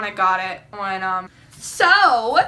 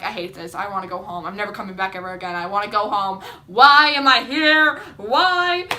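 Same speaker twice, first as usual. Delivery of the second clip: whiny complaining; 3 semitones lower, 5 dB louder than usual. Retold or imitated. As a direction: whine like a cold, fed-up kid. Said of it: "I was, like, freaking out".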